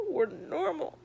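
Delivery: says it through a rueful laugh. Real, not acted. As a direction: laugh while saying it. Laughs at the same phrase.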